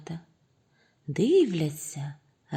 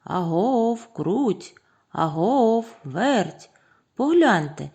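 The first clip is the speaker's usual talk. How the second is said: raised, higher calling voice; 4 semitones higher, 5 dB louder, slower than usual. A narrator's reading. Rooster summons mice to see the grain, calling out. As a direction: holler for someone across the yard. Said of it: "і гукає".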